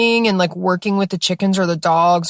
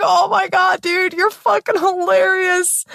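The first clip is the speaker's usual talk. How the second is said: much higher, delighted laugh-through praise; giddy laughing; 13 semitones higher than usual. Retold or imitated. Cracking up at her own joke, high and giddy. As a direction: squeal it high as the joke lands. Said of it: "I just started cracking up".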